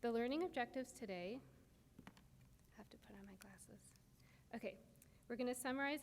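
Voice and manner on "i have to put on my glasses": a private aside, just breath; whispered aside. Real, not acted. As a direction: whisper it to yourself mid-lecture. Lecturer's muttered aside to herself.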